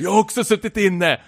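high-pitched indignant comeback; mock quarrel voice, edged with amusement; retold squabbling. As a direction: act out an argumentative retort. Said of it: "börjar de hålla på och tjafsa".

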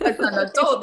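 laughing echo. Real, not acted. Guest laughs back, echoing the host. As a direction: laugh as you repeat her words.

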